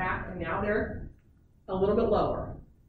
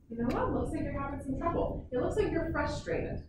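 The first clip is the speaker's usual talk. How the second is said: higher, gently reassuring tone; calm labeling voice; 6 semitones higher than usual. Shown as a demonstration. Parent noticing child's frustration, gentle reassuring tone. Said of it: "when we first see the sign of it and say".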